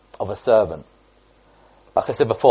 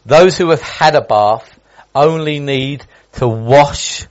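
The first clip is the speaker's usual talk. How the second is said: slow, deliberate; 3 semitones higher, 5 dB louder, much slower than usual. Acted. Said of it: "Jesus answered".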